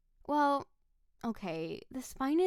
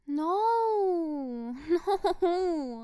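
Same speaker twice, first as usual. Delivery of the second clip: laughing no; 5 semitones higher, 6 dB louder than usual. Acted. Laughing off his excuse.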